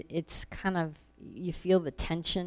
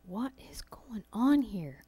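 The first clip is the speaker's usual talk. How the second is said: whispered inner thought; 4 semitones higher, 4 dB quieter than usual. Retold or imitated. Inner thought in a tense meeting.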